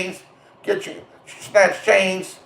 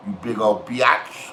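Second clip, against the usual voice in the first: low, slow drawn-out taunt; taunting insult; 7 semitones lower, 4 dB quieter, slower than usual. Acted. Taunting insult, first take.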